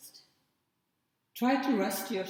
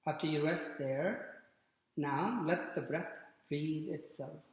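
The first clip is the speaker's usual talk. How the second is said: guided relaxation; 5 dB quieter than usual. Real, not acted. Yoga teacher guiding students into Shavasana, calm guided relaxation. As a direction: ease them gently into rest, with long pauses.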